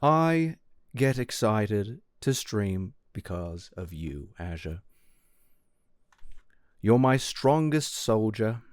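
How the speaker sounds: slow, deliberate compliment; saying something nice. Acted. Streamer answering a viewer's plea for kindness, slow and deliberate. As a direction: pay a compliment on request, taking it slowly. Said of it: "Say something nice".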